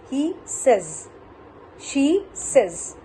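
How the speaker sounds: says pronounced 'sez' after he and she; correct says. Shown as a demonstration. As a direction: model says with a short e, falling. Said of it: "Like that way".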